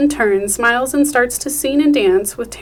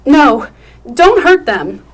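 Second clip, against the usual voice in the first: loud, higher frightened begging; desperate plea; 4 semitones higher, 8 dB louder, slower than usual. Acted. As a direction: beg him to spare the boys. Mother pleading for sons.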